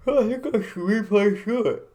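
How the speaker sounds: loud, high burst; excited. Pretend. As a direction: blurt it out excitedly. Sudden loud high exclamation.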